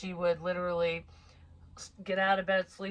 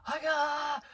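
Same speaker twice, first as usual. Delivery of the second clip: high mock-panicked cry; freaking out; 8 semitones higher than usual. Young son panicking about his bed, imitated freaking out. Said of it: "like, freaking out".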